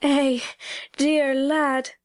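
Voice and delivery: tender country mother, slightly moved; tremulous endearment. A narrator's reading. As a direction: break out fondly, as if unplanned. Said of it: "she broke out tremulously".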